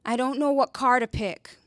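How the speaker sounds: pained whisper; hurt and pain. Retold or imitated. Roommate confides her car dilemma in a pained whisper. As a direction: mimic the roommate's tearful whisper. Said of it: "the most hurt and pain in her voice".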